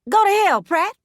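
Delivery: high, loud furious curse; angry outburst. A narrator's reading. Woman cursing her departing man, high and loud. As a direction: fling it at him, loud and high.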